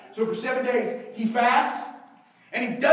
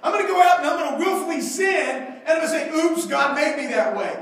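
mocking excuse; 4 semitones higher, 4 dB louder than usual. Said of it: "we're like".

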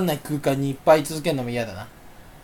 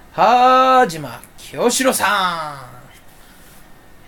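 Kiyoshiro impression; much slower than usual. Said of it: "似せる気ないじゃん".

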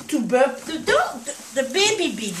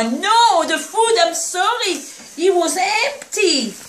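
higher-pitched flustered protest; flustered apology; 4 semitones higher than usual. Real, not acted. Speaker to hungry puppy over an empty spoon, flustered apology.

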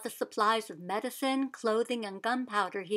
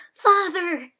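high loud call of Father; joyful shout to father arriving; 8 semitones higher, 10 dB louder than usual. Acted. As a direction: shout it out across the yard. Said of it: "she shouted".

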